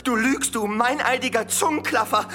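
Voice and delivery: furious denial. Acted.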